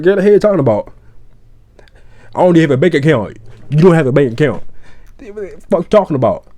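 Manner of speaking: a touch of exasperated disbelief; mock disbelief. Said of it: "I'm like".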